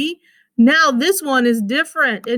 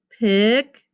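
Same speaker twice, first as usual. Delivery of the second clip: PICNIC as "pic", pause, "nic"; split into syllables. Shown as a demonstration. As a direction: separate both syllables of "picnic". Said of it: "That is a syllable".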